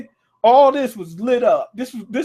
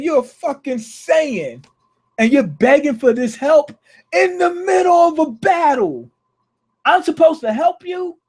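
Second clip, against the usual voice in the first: higher mock shout, furious and scornful; pissed-off Vegeta; 7 semitones higher than usual. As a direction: yell at the kid begging for help mid-battle. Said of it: "Vegeta was pissed".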